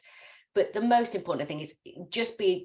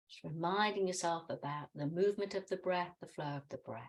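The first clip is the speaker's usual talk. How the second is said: soft, measured meditation voice; guided meditation; 3 dB quieter than usual. Real, not acted. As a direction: gently guide them into the breath, settling softer as it goes. Leads breath meditation.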